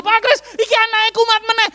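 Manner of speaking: very high, loud mock-panicked parent; urgent call. Parent calls pastor about relapsing child, urgent call.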